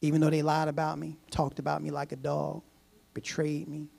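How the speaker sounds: measured prayer with reverent pauses; praying aloud. Acted. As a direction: pray earnestly, pausing between phrases. Models a prayer of forgiveness.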